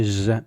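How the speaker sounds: "j" as the zh in measure; soft zh sound. Shown as a demonstration. Teacher likening it to measure, soft buzzing zh "j". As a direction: hold a smooth "j" like the s in measure. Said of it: "j sound very much".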